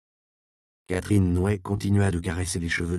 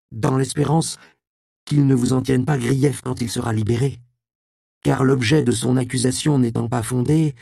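put-on higher, louder young voice, sly courtesy; young man, falsely polite; 5 semitones higher, 5 dB louder than usual. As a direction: play the polite youth with a veiled threat. Voix de Robin, jeune homme. (jeune homme d'une politesse menaçante)

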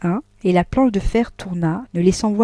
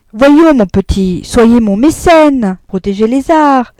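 hammy pleading; 5 semitones higher, 10 dB louder, slower than usual. Acted. Husonnet pleading, slow and loud.

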